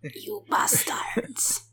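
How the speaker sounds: slow, whispery fake French accent; attempted French accent. Friend trying Ash as a Frenchman, whispered bad French accent. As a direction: breathe it out slowly in bad French. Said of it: "I can't do a French accent".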